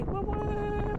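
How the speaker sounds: very high whoops of joy; gleeful whooping. Real, not acted. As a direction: whoop with delight. Whooping on the sled.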